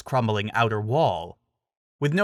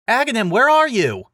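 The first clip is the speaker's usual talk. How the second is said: high, loud searching call; frantic shout; 11 semitones higher, 7 dB louder than usual. A narrator's reading. Link searching the ruins for his friend, frantic shout. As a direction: yell out desperately for him.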